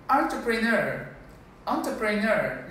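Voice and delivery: "entrepreneur" as ON-truh-pruh-NUR; careful pronunciation. Shown as a demonstration. Diction teacher modelling entrepreneur for the class, careful pronunciation. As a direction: open "entrepreneur" with an O sound. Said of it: "The E here sounds like O".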